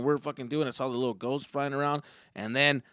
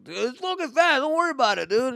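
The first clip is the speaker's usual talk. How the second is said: loud, higher-pitched buddy voice; mildly hyped reassurance; 11 semitones higher, 5 dB louder than usual. Acted. Friend to nervous rider in line, mildly hyped. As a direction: brush off the worry, a bit hyped.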